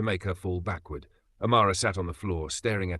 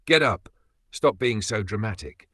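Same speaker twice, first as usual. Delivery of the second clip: contemptuous order. Acted. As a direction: bark the order down at her, then sneer. Husband contemptuously orders crying wife.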